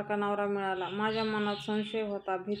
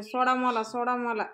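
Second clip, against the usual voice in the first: shouting; 3 dB louder than usual. Retold or imitated. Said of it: "आणि ही लता ओरडते".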